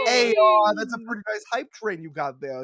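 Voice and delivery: low mock mobster shakedown; smiling menacing loan shark. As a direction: lean in like a friendly extortionist. Mock mob shakedown over hype train.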